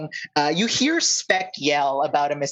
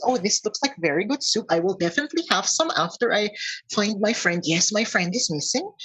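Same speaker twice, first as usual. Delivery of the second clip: higher-pitched, polite centaur voice; raised pitch, courteous and a little worried; centaur searching for friend; 5 semitones higher than usual. Acted. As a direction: play the centaur politely accepting help.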